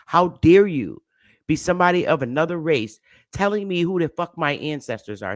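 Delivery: "How dare you" flung out hard; indignant outrage. Real, not acted. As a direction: confront the person directly. Furious at being told her ancestry.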